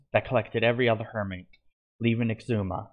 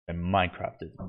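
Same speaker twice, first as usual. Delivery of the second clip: villain chuckling; 5 semitones lower, 3 dB quieter than usual. A narrator's reading. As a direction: gloat down at the heroes. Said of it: "he chuckled".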